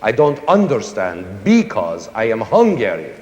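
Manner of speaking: put-on light Hungarian accent, stressing each first syllable; a hint of a Hungarian speaking English. Teacher jokingly imitates a Hungarian speaking English, lightly accented. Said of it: "a Hungarian speaking English".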